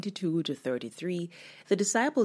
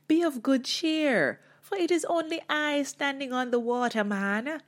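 casual Jesus; 8 semitones higher than usual. Shown as a demonstration. Jesus casually telling the disciples not to worry, breezy. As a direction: toss it off like a laid-back friend. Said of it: "in his own style".

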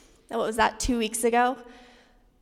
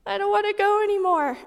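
imitating toddler; 8 semitones higher, faster than usual. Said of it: "was like".

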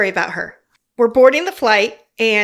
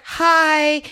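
Drew Barrymore voice; 4 semitones higher than usual. Retold or imitated. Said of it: "in her Drew Barrymore-ness".

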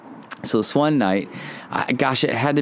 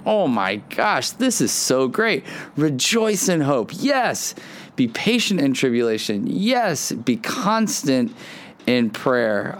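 excited; 2 semitones higher, slower than usual. Retold or imitated. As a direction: relive being thrilled by what you read. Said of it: "I got really, really excited".

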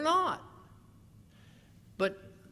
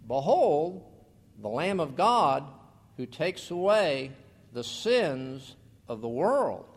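louder proclamation; 3 semitones lower, 4 dB louder than usual. Retold or imitated. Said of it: "he says it this way".

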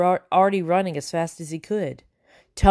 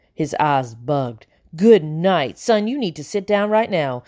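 babbling; 2 semitones higher than usual. Acted. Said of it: "he babbled".

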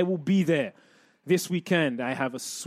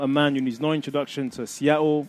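upbeat, louder guest introduction; radio host intro; 4 dB louder than usual. Acted.

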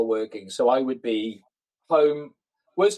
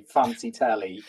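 simple explanation; slower than usual. Retold or imitated. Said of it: "I'd have to say".

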